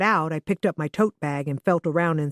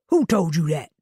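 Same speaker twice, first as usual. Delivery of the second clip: put-on retorting, Southern accent. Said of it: "he retorted".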